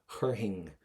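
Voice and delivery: chur hing ending in an "ing" sound. Shown as a demonstration. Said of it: "get an I N or an I N G sound at the end".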